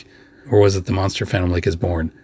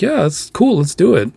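eager; 10 semitones higher than usual. Retold or imitated. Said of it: "were really like".

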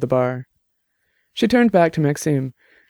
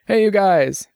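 higher-pitched call across a bar, little added volume; understated narrated shout; mild shout; 6 semitones higher, slower than usual. Acted. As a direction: call for the band's attention, half-shouted. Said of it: "J T shouted from behind the bar".

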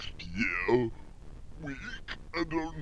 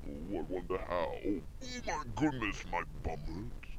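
mock hushed strain; 3 semitones lower, 8 dB quieter than usual. Reaching into his own bum.

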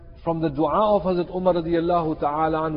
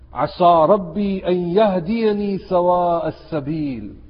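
Quranic recitation. Real, not acted.

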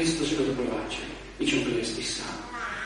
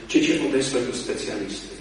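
usual speaking voice

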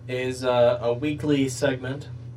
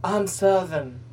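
mock Southern accent; 5 semitones higher, slower than usual. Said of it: "in that one commercial where she's like".

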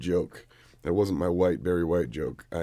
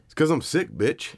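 sudden loud retort; 9 semitones higher, 4 dB louder than usual. Real, not acted. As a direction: voice jumps high and loud. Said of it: "There it is, see?".

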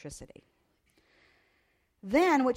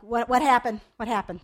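panicked question; 9 dB louder than usual. Retold or imitated. Mother hears bad news on phone.

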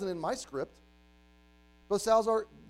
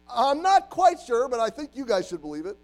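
mock unsure preacher; 7 semitones higher, 11 dB louder than usual. Mock John the Baptist preaching.

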